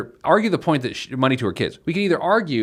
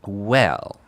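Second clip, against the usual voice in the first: put-on older woman, drawn out; lightly voiced old lady settling in to answer; seventy-year-old woman; 3 semitones lower than usual. Host playing Beatrice for the co-host, old woman voice. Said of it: "get my seventy-year-old woman voice".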